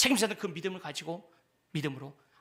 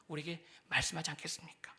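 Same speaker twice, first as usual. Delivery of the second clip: whisper; 3 semitones lower, 10 dB quieter than usual. Real, not acted. Hushed question.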